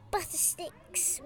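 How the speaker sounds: hushed, voiced stage whisper; very soft spoken spell. A narrator's reading. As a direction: cast it softly under your breath.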